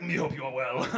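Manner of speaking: lightly voiced monster, low pitch; a hint of low monster voice; Cookie Monster. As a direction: email read as a mild monster impression. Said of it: "You sound like the fucking Cookie Monster".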